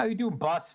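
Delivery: put-on New York mobster henchman-style accent. Playing a game, speaker voices a female character in a new york mafioso henchman voice. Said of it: "give her a henchman voice".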